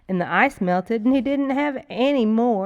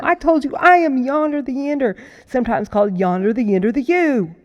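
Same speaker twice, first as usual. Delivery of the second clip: louder, swaggering tale of his father; boastful creature; 2 semitones higher, 6 dB louder than usual. Acted. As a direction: brag with mounting gusto. Yonder boasts to the girls.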